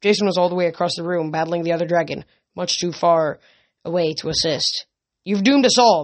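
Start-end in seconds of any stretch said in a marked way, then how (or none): 5.2-6.0 louder, higher accusing scream. Acted. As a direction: scream the blame at her. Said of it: "Medea screamed".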